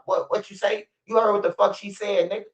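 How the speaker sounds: high aggressive guard voice; imitating the security guard. Guard backing up Laura Lightfoot against the son, high mock threat. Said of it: "The security guard".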